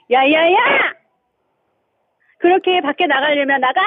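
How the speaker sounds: half-hearted practice telling-off; attempted scolding. Caller rehearses scolding husband, mild mock anger. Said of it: "그렇게 이렇게 하면 안 돼요".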